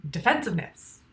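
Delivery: retold loud flash of recognition; sudden loud "aha" of catching oneself; waking-up aha. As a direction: burst out with the aha, then name it. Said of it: "I was awake enough at the time to go".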